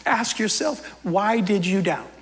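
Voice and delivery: soft, affectionate teasing; proud and tender. Acted. Jesus holding Peter, softly and proudly chiding him. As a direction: gently chide a beloved student. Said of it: "he's proud of Peter".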